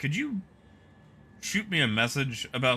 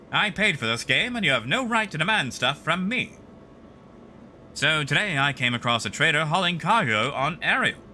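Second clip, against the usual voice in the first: put-on Mid-Atlantic accent; 2 semitones higher than usual. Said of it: "like a crappy Mid-Atlantic voice".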